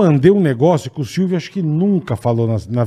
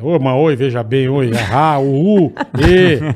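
very slow, every word drawn out. Doing an impression on request: Silvio Santos impression. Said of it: "imita aí, Bola, Silvio Santos".

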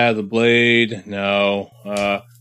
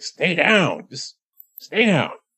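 sharp, harsh half-whisper, pitched up; 7 semitones higher than usual. During a tabletop game scene, the speaker voices a figure in a harsh half-whisper. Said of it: "It's kind of like harsh whisper".

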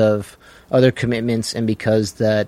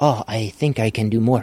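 really bad, slow, drawled put-on Korean accent. Telling a gym story, the speaker quotes a singer asking to learn more: bad Korean accent as the singer. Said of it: "That's a really bad Korean accent".

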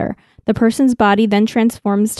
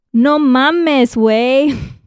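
put-on, slangy Mexican Spanish accent; 4 semitones higher than usual. A native Spanish speaker, asked to try it, speaks in a Mexican accent. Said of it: "Do you want to try a Mexican accent?".

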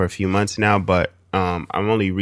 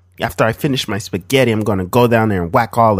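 put-on Italian mobster accent; 3 semitones higher, 4 dB louder than usual. Performing a bit, with a listener reacting afterward: put-on Italian mobster accent. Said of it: "That didn't sound like an Italian at the end".

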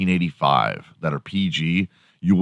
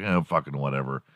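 mock offhand, casual, tossed-off, no emphasis at all; 5 semitones lower, 8 dB quieter than usual. Acting out some guy casually walking on in a film, mock-casual, tossed off. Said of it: "some guy casually walking on".

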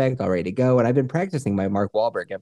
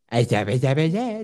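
put-on slight lisp, babbling. Showing another speaker how to do an Adam Sandler impression. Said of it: "Adam Sandler's probably the easiest celebrity to do an impression of".

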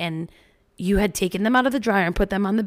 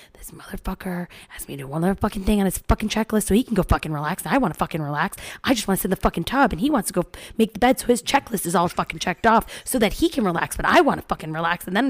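put-on angry muttering under the breath. Retelling resentful thoughts while making the bed: imitating muttering under breath. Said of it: "silently making the bed underneath my breath going".

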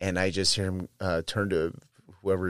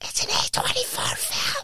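mock loud whispering. Imitating a man at the Alamo Draft House with his date: imitating a loud whisper. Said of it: "he did loud whispering, which sounds like".

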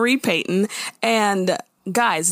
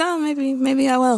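put-on unsure, hesitant tone, higher; 5 semitones higher than usual. Recapping a goodbye scene between two characters, imitating an unsure reply. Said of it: "The way she said it was very unsure".

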